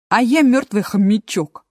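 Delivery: bright, chirpy hamster; cheerful. Acted. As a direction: say it briskly and cheerfully. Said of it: "бодро сказала существо". (бодро)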